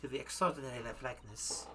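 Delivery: put-on German accent. Madame presents her criminal exhibits, German accent. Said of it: "gonna freaking go back into German again".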